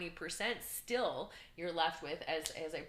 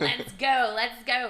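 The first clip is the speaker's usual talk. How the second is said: excited cheer; 5 semitones higher, 12 dB louder, much slower than usual. Retold or imitated. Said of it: "I'm like".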